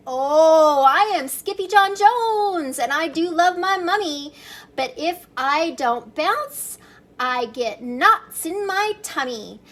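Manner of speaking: bright, high kitten declaring his name; excited kitten. Acted. Kitten boy bouncing on his bed, high and gleeful. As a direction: bounce the words up high like a happy kitty.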